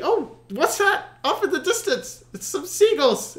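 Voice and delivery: hammed-up amazement; surprised discovery. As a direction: spot hope on the horizon. Rower spots seagulls.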